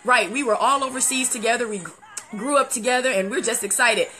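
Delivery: ordinary delivery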